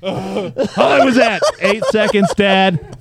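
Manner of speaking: gasping out the words, winded; breathless after holding breath. Pretend. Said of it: "He's out of breath after two".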